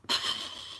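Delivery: mock weary huff of breath; imitated sigh. Gas engineer reacting to the householder, imitated sigh. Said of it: "he was going".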